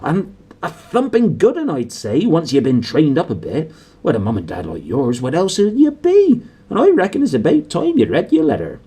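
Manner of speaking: a jovial giant, hearty and loud; Hagrid, big friendly giant. A narrator's reading. Narrator voices Hagrid.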